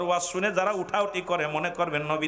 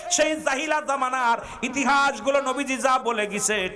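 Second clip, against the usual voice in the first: high, mounting litany of grievances; full-force preaching; 10 semitones higher, 5 dB louder than usual. Real, not acted. Preacher decrying injustice in the country, high and mounting. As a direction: build phrase by phrase to a loud peak.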